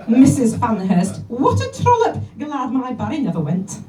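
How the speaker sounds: a shrill gossiping pensioner, squealing trollop; gossipy old lady. Acted. Eunice gossiping to Betty about the neighbour: mock scandalised old lady. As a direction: relish the scandal like a nosy old dear.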